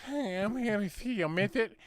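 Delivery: slow, lightly put-on impeded speech; a hint of the character's speech impediment. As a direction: joke teller voicing the little man at the door. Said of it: "he's got a fucking speech impediment".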